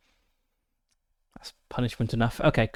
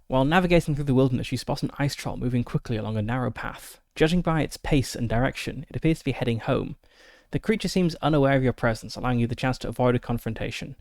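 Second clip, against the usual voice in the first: story narration; faster than usual. Acted. Reads the encounter card aloud.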